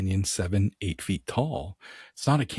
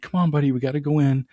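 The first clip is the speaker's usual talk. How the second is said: put-on higher, louder call to the kid; calling to son; 6 semitones higher, 5 dB louder, faster than usual. Dad calls his son in from the grass, higher and louder. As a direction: call the boy in, keeping it light.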